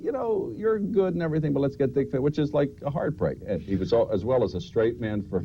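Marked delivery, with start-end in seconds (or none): 0.0-2.2 raised mock executive voice; a hint of a producer brushing him off; network exec voice. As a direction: play the dismissive TV boss, lightly.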